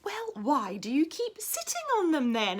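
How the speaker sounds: dog's question in a whisper. Acted. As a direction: breathe the question with no voice. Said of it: "asked the dog".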